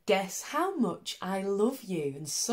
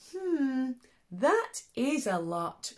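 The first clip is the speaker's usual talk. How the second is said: little hare thinking; 6 semitones higher, slower than usual. Acted. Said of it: "thought little nut brown hare".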